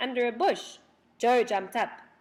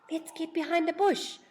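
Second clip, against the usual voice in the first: higher, urgent hurry; sudden urgency; 9 semitones higher, 3 dB louder than usual. A narrator's reading. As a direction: push them to hide, fast. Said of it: "said Beth suddenly".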